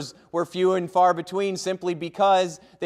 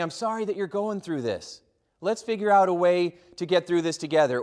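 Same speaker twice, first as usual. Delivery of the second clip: soft sincere sorry. Shown as a demonstration. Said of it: "You're saying".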